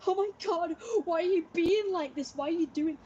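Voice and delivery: re-enacting a loud, high frantic outburst; frantic high-pitched shouting. Woman re-enacts shouting at her housemate mid-argument, frantic and high-pitched. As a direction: act out being wound up, voice shooting up loud. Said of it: "my voice was getting higher pitched. I was shouting quite frantically".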